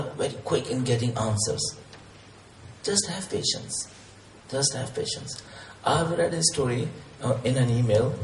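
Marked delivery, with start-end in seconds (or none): 2.8-5.4 hushed. Real, not acted. Preacher urging patience, hushed and breathy. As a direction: say it almost in a whisper. Soft advice to listeners.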